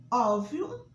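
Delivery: óbvio slow and loud, open ó stressed. Shown as a demonstration. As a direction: drag out óbvio with a wide open ó. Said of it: "acento agudo no O". (óbvio devagar, ó aberto)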